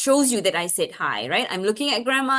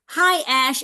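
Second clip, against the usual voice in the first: higher, louder hello, imitating a mother; lightly voiced mother greeting; mama's greeting; 5 semitones higher, 4 dB louder than usual. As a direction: act out mama's friendly reply. Mama's reply acted out.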